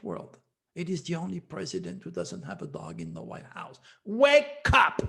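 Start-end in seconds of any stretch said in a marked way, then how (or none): 4.0-5.0 raised, higher cry of wake up; a loud wake-up call; urgent call. Real, not acted. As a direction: shout "Wake up!" at the viewers. Urging the audience to wake.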